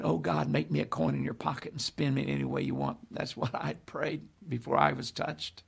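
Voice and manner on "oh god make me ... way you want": softly rattled-off mock prayer. Preacher voices the prayer John wasn't praying, quiet mock prayer. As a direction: murmur a quick, pious plea. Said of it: "he's not praying".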